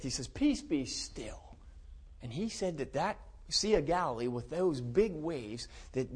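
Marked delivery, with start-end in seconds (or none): 0.3-1.4 very slow, lowered voice; slow, measured, quietly authoritative; calm command. Retold or imitated. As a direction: retell a command to calm the storm. Retells Jesus calming the storm.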